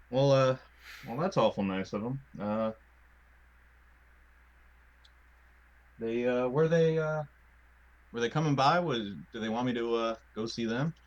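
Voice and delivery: aw-shucks country voice, unsure; Southern accent, polite and wary; southern twang. Acted. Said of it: "I needed to give him a southern twang 'cause I realized Graham has a southern twang".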